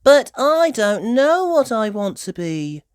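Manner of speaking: put-on a mild wistful sigh in a high child voice. A narrator's reading. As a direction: sound a little lost and sighing. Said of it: "she sighed".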